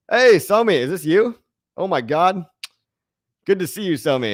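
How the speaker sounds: high, loud delighted hello to a friend; light up on spotting him; excited greeting. Real, not acted. Streamer greets his friend Somi in chat, loud and delighted.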